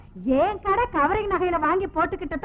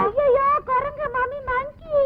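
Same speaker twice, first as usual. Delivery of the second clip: frightened cry; 8 semitones higher, slower than usual. Acted. Frightened by monkey in shop.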